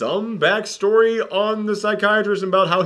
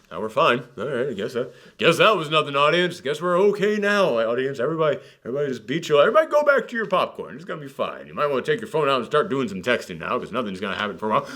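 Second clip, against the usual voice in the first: mock reassurance; 4 semitones lower, faster than usual. Film telling audience to go back to popcorn, mock-soothing. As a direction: lull them before the next scare.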